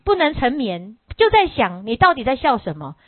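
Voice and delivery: pressing, indignant questions, quickening; angry questioning. Acted. Disciple presses the master for the reason, angry. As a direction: demand to know why he laughed. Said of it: "就生气呀".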